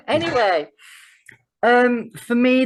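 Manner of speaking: high and loud, drawn out; eager, slow build-up; excited. Real, not acted. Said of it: "too excited".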